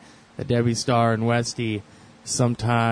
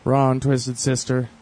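slightly raised, drawn-out call; mild mock yell; 4 dB louder, slower than usual. Coworker yells to Ron when a band comes on, mild mock yell. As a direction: imitate calling out across work. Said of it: "I'll yell, like".

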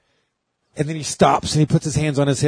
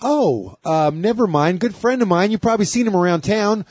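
flustered host; 6 semitones higher than usual. Retold or imitated. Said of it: "he's like".

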